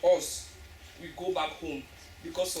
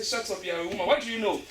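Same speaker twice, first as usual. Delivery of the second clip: mock angry man; 3 semitones higher, 6 dB louder than usual. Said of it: "they will say".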